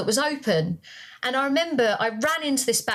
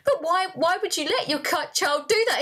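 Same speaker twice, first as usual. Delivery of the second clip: higher, imitated judgemental questioning; mock disapproval; 5 semitones higher than usual. Neurotypical parent questioning another parent, mock disapproving. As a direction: mimic a critical onlooker.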